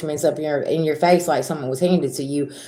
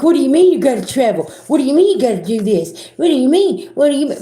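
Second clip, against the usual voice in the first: mock angry whining; 5 semitones higher than usual. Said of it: "somebody stomping around and they're all mad".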